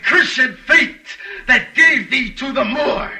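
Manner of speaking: high, slow wail with a laugh under it; mock anguished sleep cry. Iago mimics dreaming Cassio for Othello, slow high mock wail. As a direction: ham up Cassio's dream lament, savouring it. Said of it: "and then cried".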